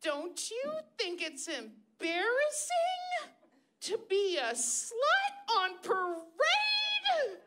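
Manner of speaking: high, slow scolding mom; slow, sing-song mock scold; imitating mom. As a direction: drag it out like a pearl-clutching mother. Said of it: "Mom was like".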